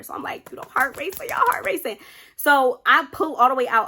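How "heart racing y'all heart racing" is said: high-pitched, hammed-up panic; retold panic. Telling y'all about panicking while driving away, high mock panic. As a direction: act out a racing heart in a much higher voice. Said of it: "I'm panicking".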